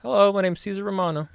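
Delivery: high, chirpy, generic greeting voice; jokey Caesar Romano impression. Jokingly doing the Joker actor on request, high and chirpy. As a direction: say it in a goofy high voice. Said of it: "here's what he goes".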